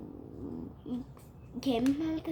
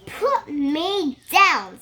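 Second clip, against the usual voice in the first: pleading fish cry; 4 semitones higher, 10 dB louder, much slower than usual. Acted. Fish voiced pleading in story.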